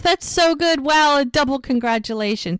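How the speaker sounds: high-pitched, gushing delight; excited congratulations. Retold or imitated. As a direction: act out gushing over a friend's good news. Retold congratulations on pregnancy.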